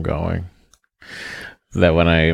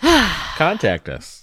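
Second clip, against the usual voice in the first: drawn-out high plea; 12 semitones higher, much slower than usual. Acted. Mock dramatic plea.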